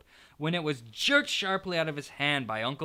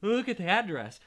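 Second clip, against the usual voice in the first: quivering voice; 9 semitones higher than usual. Acted. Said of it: "in a quivering voice".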